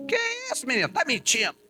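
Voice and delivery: quick mock-indignant mum; mother's scolding. Mother snaps back at her son, lightly mocking.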